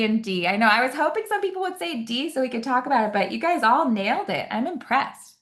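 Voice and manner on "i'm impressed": whispered praise, voiceless; whispering. Real, not acted. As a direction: breathe it out as a whisper. Praising the class's answers, softly.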